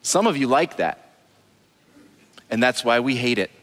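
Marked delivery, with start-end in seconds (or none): 2.5-3.6 laughing. Real, not acted. Laughing at own joke.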